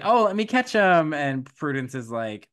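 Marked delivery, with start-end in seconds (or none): 0.0-1.1 high, loud eager helper voice; high, loud fake-eager offer to catch the mice. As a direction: chirp it out, too keen to help. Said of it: "And so she's like".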